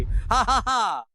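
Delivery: mocking "ha ha ha"; gloating villain laugh. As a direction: laugh in triumph over a ruined show. Villain gloats over ruined exhibition.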